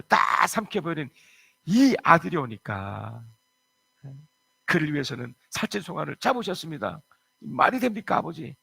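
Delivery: indignant protest. Acted. Elder son protesting to his father, indignant and loud. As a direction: spit out the injustice, then demand an answer.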